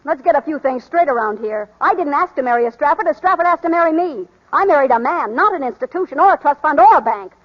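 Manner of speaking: spirited outburst at the in-laws; defiant anger. Acted. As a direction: stand up to them and put your foot down. Kitty defies the family in quarrel.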